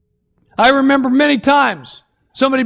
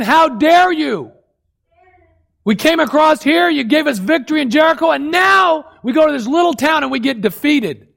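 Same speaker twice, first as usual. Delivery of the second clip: raised, indignant protest at God; mock-furious challenge, higher; angry Joshua; 4 semitones higher than usual. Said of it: "Joshua's getting mad at God".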